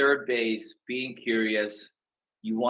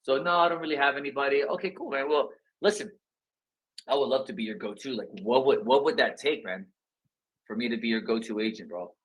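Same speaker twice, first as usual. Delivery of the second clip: casual phone exchange; 2 semitones higher than usual. Pretend. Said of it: "Ask them".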